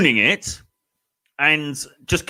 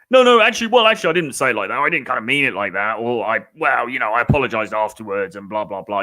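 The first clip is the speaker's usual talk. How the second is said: flustered backpedaling; faster than usual. Retold or imitated. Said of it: "the very worst thing to do is to be like".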